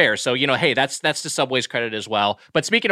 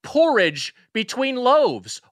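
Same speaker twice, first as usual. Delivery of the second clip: mock dramatic; 11 semitones higher, much slower than usual. Dramatic Oliver Twist comparison.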